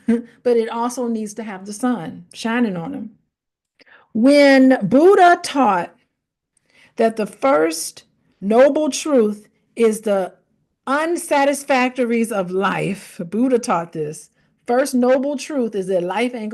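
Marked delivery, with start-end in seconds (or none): 4.1-12.3 slow, hushed whisper. Real, not acted. Lecturing about Buddha, dropping into a slow whisper. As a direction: breathe it out slowly as a whisper.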